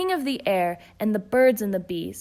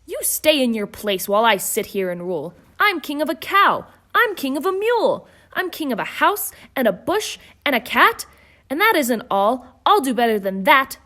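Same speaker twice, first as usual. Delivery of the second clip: louder, proud king holding court; royal boasting; 3 semitones higher, 5 dB louder than usual. Acted. King Yertle boasts from his throne, loudly. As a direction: boast down at the turtles beneath you. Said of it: "his royal voice thundered".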